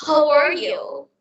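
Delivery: American-accented greeting demo. Shown as a demonstration. Comparing accents for partner, American-accented greeting. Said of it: "it's just great with American accent".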